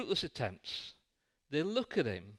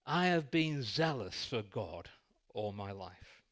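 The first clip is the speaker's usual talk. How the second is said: lightly proud, slowed for each credential; proud boast. Acted. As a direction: list your credentials with pride. Pharisee boasts his pedigree.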